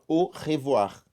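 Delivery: "au revoir" opening on a pure O sound; French "au revoir", AU pronounced like O. Shown as a demonstration. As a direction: say "au revoir" with AU as a single O. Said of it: "A mais U igual a O".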